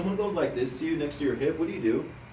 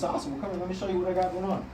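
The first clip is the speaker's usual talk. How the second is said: friendly invitation; 2 semitones higher, 4 dB quieter, faster than usual. Shown as a demonstration. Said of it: "And it's".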